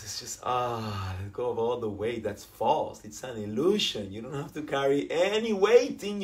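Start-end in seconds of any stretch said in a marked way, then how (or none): 0.0-2.2 guided breathing. Acted. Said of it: "Let's breathe that, guys".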